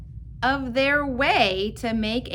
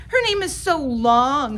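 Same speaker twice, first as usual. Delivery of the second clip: put-on teasing girl; 4 semitones higher, 7 dB louder than usual.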